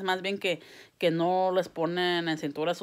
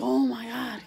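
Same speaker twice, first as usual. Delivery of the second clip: a higher, startled oh my God; retold alarm; 6 semitones higher, slower than usual. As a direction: gasp it as the rock flies. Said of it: "I was like".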